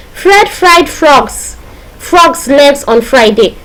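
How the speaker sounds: very slow recital, starting high; deliberate, word-by-word example; demonstration sentence. Shown as a demonstration. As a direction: space out each F word for the class. Teacher demonstrates an alliteration example.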